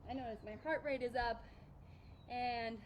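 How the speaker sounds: talking winded while holding plank; out of breath. Real, not acted. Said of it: "I'm out of breath".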